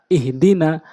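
syllables joined into one word; quick reading. Shown as a demonstration. Teacher showing learners the joined reading, quickly. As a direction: read it briskly in one go. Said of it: "দ্রুতটা উচ্চারণ করতে হবে".

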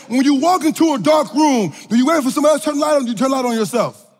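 racing through the question; rushed fast. Shown as a demonstration. Preacher hurrying the dark room question fast. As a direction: rattle it off quickly. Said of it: "let me slow it down".

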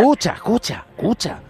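loud urgent call; insistent calling. Pretend. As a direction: raise the voice to get attention. Urging the other to listen.

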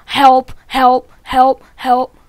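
loud repeated help calls; calling for help. Acted. Chicken under attack cries loudly for help. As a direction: call out for help as you're hit.

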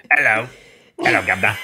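put-on laughing old-timey greeting; a hint of a period gent; character voice. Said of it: "Is that your voice?".

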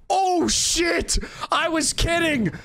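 high, startled exclamations; shocked outcry. Real, not acted. Streamer finds the enemy really was there, shocked outcry. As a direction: cry out in startled disbelief. Caught out by enemy after joking.

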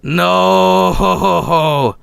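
high, hammed-up anguished cries; mock wailing grief. Gamer wailing at his dead colonist Mama, high hammed-up cries. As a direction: wail over a dead pawn like a tragedy. Mourning Mama's death in game.

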